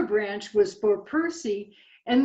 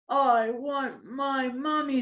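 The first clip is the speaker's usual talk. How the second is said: higher little owlet voice; put-on little baby voice, raised; baby owl pleading; 4 semitones higher than usual. Voicing baby owl Bill.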